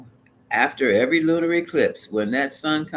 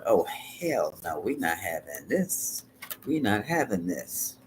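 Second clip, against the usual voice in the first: low, slow, flat-out refusal; a mild mock of someone putting their foot down; defiant refusal; 4 semitones lower, 5 dB quieter, slower than usual. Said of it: "other people are going".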